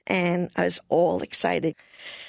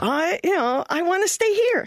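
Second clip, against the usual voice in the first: higher, earnest plea; pleading to stay; 10 semitones higher than usual. Retold or imitated. Missionary begging the president to stay, higher. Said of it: "And I go".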